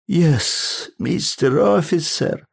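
high, slow, meek little voice; scared old tourist babbling to a policeman; timid babble. A narrator's reading. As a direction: stammer it out like a frightened little man. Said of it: "пролепетал Адамс".

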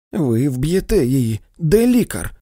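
high, loud panicked scream; frantic mother screaming for the doctor. A narrator's reading. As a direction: shriek it at her in terror. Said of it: "закричала місіс Бент".

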